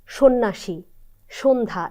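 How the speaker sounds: সন্ন্যাসী said shonnashi, সন্ধ্যা as shondha; সন্ধ্যা spoken as shondha; demo pronunciation. Shown as a demonstration. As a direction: say সন্ন্যাসী with o at the start. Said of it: "কিছু কিছু শব্দে আছে".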